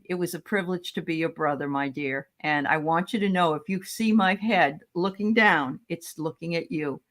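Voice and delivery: a touch of sincere, gentle earnestness; understated heartfelt message; serious brother. Retold or imitated. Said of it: "And then seriously".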